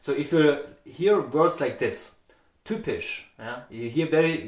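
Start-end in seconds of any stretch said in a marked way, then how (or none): 2.6-3.3 typisch with strongly aspirated hard T and crisp P; typisch, T with a puff of air; hard consonants. Shown as a demonstration. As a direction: say typisch in Standard German, hard T and P. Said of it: "very strongly the, the hard consonants".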